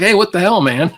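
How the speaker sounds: hammed-up startled protest, laughing around it; mock indignant outburst. Richard imagined reacting to the Modesto story, mock indignant. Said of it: "Richard's like".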